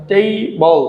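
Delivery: "টেবল" in two beats, tei, bol; split into syllables. Shown as a demonstration. Teacher finding the two-syllable word, "টেবল" split tei, bol. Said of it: "দুটি syllable রয়েছে".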